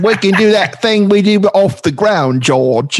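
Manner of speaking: high-pitched mock English girlfriend; Siobhan Day impression. Co-host teasing George as his English ex, high mock-girl voice. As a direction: coo it in a put-on English girl's voice. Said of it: "I dated an English girl, Siobhan Day".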